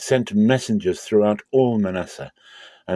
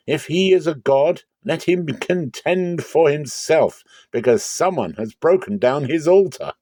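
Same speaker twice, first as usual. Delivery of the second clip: much higher and louder, slowing to drive it home; defiant challenge; 7 semitones higher, 4 dB louder than usual. Acted. Joash to the men demanding his son, loud and defiant. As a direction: throw the challenge back at the crowd. Joash defies the angry townsmen.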